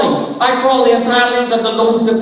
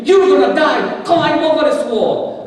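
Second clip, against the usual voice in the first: higher-pitched urgent warning; raised, half-shouted command to climb; retold urgent scream; 5 semitones higher than usual. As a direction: imitate a man yelling through a wall. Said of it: "is screaming to me".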